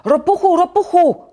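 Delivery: high, loud shout of a name; insistent high-pitched holler. A narrator's reading. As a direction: yell to wake your friend. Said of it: "krzyczał Żabek".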